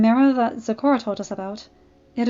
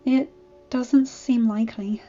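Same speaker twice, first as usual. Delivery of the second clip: sadly; 2 semitones higher, slower than usual. Acted. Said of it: "Twilight said sadly".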